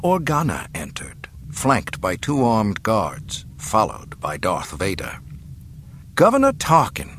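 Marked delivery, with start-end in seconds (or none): 6.1-7.1 higher, louder, spat-out name; spitting contempt. A narrator's reading. Captive princess confronting the governor, spitting contempt. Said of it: "she spat".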